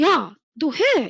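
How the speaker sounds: slow, emphatic, forceful and firm.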